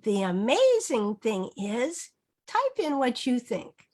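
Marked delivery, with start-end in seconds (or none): 0.0-2.1 slow, rising on amazing; modeling the stem. Shown as a demonstration. Teacher modeling the sentence stem, slow.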